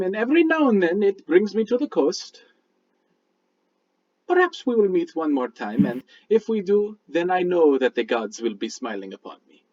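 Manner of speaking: measured, formal mystic with a lilting pitch; courteous stranger paying a compliment; lightly voiced Midnight. Midnight praising Mister Kolbavar for his work, lightly acted mystic.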